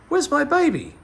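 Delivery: high, loud shocked question; alarmed cry. Acted. Mother finding a stranger's baby in her pram, shocked cry. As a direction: gasp it out in alarm.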